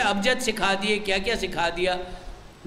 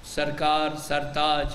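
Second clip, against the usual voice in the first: retold wifely calm, unhurried phrases; low, measured mock deference; calm compliance; 4 semitones lower, slower than usual. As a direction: imitate a meek, obedient wife, pitched low. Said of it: "بڑے آرام سے کہا".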